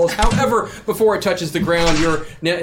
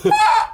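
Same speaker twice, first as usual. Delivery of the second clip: high hammed-up busker scream; mock scream; 5 dB louder than usual. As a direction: scream like the sax player, high. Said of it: "he's about to scream".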